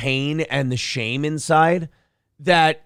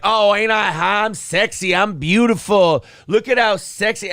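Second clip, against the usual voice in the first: mock vain; 6 semitones higher, 4 dB louder than usual. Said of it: "we're like".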